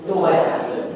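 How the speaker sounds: loud New Jersey "daughter", DAW-duh; New Jersey "daughter" with rounded aw; New Jersey accent. Shown as a demonstration. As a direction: demonstrate "daughter" in Jersey speech, r dropped. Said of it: "how to talk like yous are from New Jersey".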